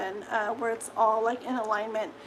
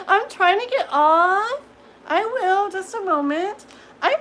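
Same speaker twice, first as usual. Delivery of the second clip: laughing; 7 semitones higher, 5 dB louder than usual. Real, not acted. Laughing while tech fails.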